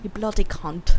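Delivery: lightly put-on British accent; British-accented mock insult. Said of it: "They also say the word cunt".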